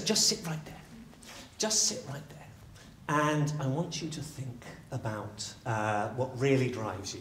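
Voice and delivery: soft, slow and spaced out; calm coaching. Acted. Storyteller guides the troubled man on the ground, calmly. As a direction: settle him gently, leaving room to think.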